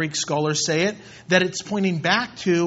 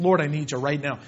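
simple prayer; 4 semitones lower, faster than usual. Shown as a demonstration. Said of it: "Speak freely right then".

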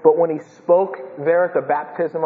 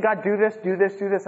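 pushy, repetitive petition, pitched up; demanding prayer; 4 semitones higher than usual. Acted. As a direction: mimic someone ordering God around.

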